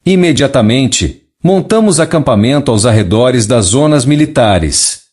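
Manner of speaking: even synthetic neural TTS voice; a message read by a speech synthesizer. Real, not acted. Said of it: "usando um sintetizador de voz neural para ler a mensagem canalizada original". (voz de sintetizador neural)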